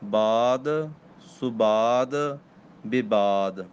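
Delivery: ਬਾਦ ਸੁਬਾਦ ਵਿਵਾਦ with a soft, light final ਦ; each word apart, ending ਦ gently; soft d sound. Shown as a demonstration. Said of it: "ਦੱਦਿਆਂ ਦਾ ਪੋਲਾ ਉਚਾਰਨ ਕਰਨਾ".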